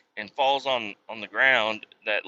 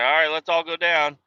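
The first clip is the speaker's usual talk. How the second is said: mock instructor; 5 semitones higher, 3 dB louder than usual. Mocking the training instructor.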